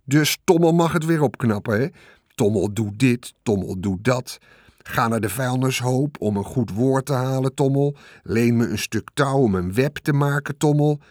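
sulky rat listing his grievances; indignant rat. Acted. The rat complaining to Wilbur about always being asked, aggrieved rat voice.

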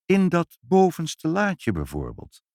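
high, innocent suggestion; kindly helpful hint; friendly. A narrator's reading. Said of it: "vroeg moeder vriendelijk".

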